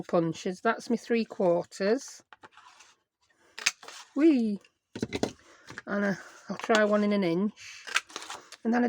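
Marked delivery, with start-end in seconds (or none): 4.2-4.6 short, higher falling "whee"; playful whee. Real, not acted. Crafter having fun with her punches, playful whee. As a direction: toss out a quick bright-pitched whee.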